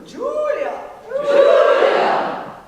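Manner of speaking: high, loud calling Julia; calling a name. Shown as a demonstration. Coach playing a calling game, loud call. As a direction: call across the room for Julia. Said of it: "let's play this game".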